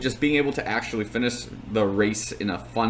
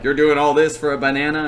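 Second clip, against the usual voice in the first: raised, higher imitation of megaphone heckling; mock yelling; 4 semitones higher, 5 dB louder than usual. Megaphone guy teasing passing runners, mock yell. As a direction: call it out like a joking race heckler. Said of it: "like, yelling at people".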